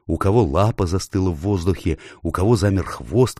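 ordinary delivery, nothing marked

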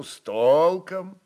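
ordinary talk

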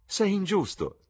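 laughing. A narrator's reading. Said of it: "rise Sibyl".

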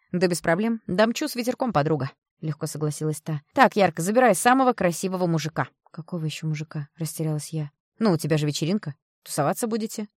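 loud, blunt, insistent woman; a tough friend laying it out straight; brash friend. Acted. Friend advising the mother, loud blunt voice.

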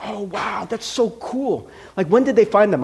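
lightly voiced amazed child; imitating awed kid. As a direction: kid gasping in wonder. Young neighbor kid amazed.

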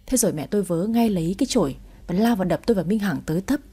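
ordinary delivery, nothing marked

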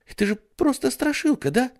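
put-on high, quick child's question; whiny little boy. Ray asks hopefully, high whiny child. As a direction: whine it like a small boy. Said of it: "нытик-братец".

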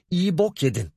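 roar. A narrator's reading. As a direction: roar it at the thief. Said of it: "diye kükredi". (öfkeyle kükreyen albay)

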